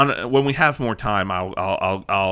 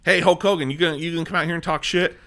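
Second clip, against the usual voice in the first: quick hammed-up wrestling manager calling out, starting higher; mock manager taunt; 3 semitones higher, faster than usual. Manager calls out Hulk Hogan on the mic, fast mock taunt. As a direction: rattle off the challenge like a heel manager. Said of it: "is like".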